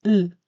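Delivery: "L" as a held lll sound. Shown as a demonstration. Teacher sounding out the L. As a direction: hold the l sound on the tongue. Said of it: "que se pronuncia L".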